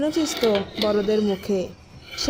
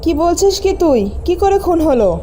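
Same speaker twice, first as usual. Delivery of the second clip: high, loud stunned questions; shocked disbelief; 5 semitones higher, 7 dB louder than usual. Acted. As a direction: reel from the shock. Sister hears of the murder.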